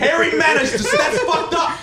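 high shriek through laughter; laughing shriek. Real, not acted. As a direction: squeal it, laughing in disgust. Reacting to hairy leg.

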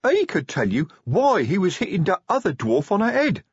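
high troll voice, blurting it out; oblivious troll. Acted. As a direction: play a guileless troll telling what he saw. Troll figure in the story.

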